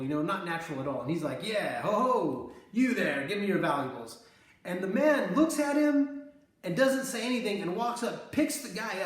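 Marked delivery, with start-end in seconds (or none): 1.4-4.2 theatrical mugger. Retold or imitated. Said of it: "very forced and theatrical".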